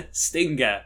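slow, drawn-out mock Italian accent; hammed-up Italian accent. Shown as a demonstration. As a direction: stretch it like an Italian. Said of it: "say it in an Italian accent".

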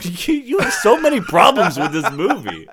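giggling tease; laughing at her co-host. Real, not acted. Laughing while teasing.

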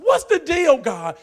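high, loud demand; exasperated shout. Retold or imitated. Preacher retelling demanding an answer from God, shouted. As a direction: throw the question at God.

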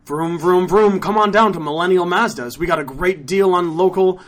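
vroom opener into announcer patter; car dealer ad. Acted. Dealer advertising Millennial Mazdas, announcer sales pitch. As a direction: pitch it like a local dealership spot.

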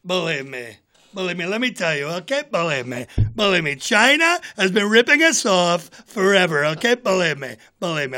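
politician catchphrase impression; Donald Trump. Candidate railing about China, insistent impression. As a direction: repeat it insistently in short, separate bursts. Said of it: "I just do Donald Trump".

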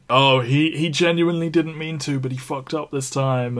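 excusing plea. Acted. Voicing the cliche excuse for him.

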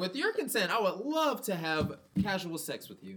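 hammed-up courteous gentleman; mock polite voice. Parody polite consent request.

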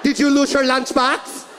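mock mom interrogation. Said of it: "That's how my mom disciplined".

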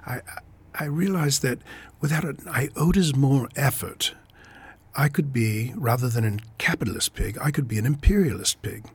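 a light, self-mocking stab at an English accent; an English banker's accent, put on only halfway; terrible English accent. Novelist reading his charming sociopath in a bad English accent. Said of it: "please apologize my terrible English accent".

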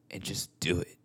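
intimate whispered pep talk. Acted. Vlogger whispering encouragement to viewers, hushed whisper. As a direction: lean into the mic and whisper it.

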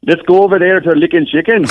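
lightly voiced cooler Darren take on "Lickin' Chicken", ending on a rise; a hint of Darren's accent on "Let's go over there to Lickin' Chicken"; imitating Darren. Friend asks how Darren says it, a hint of his accent. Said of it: "How would Darren say Lickin' Chicken?".

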